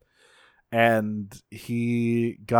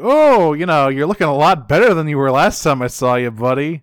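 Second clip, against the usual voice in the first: sneering fake cheer, pitched up; mock friendly villain; 3 semitones higher, 6 dB louder than usual. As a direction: greet him with oily false warmth. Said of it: "he's like".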